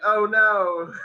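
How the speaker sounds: mock dismayed oh no. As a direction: gasp it out in dismay. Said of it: "you're like".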